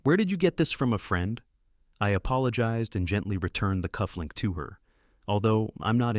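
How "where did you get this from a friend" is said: sour. A narrator's reading. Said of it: "but reply sourly".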